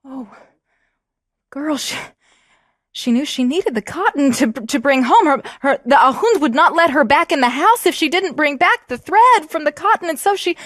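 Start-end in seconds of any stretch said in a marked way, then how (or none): 3.2-10.6 laughing as she tells. Real, not acted. Laughing while telling.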